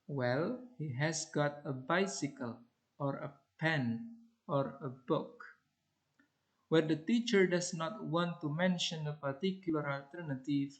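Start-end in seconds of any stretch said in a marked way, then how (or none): 0.8-5.4 bicycle, pen and book each rising; rising on every item. Shown as a demonstration. Teacher giving clues to a pupil, rising list. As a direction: keep rising even on book. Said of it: "a rising intonation is used on the final item".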